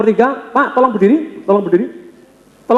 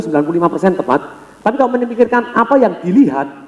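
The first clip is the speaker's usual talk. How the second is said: usual speaking voice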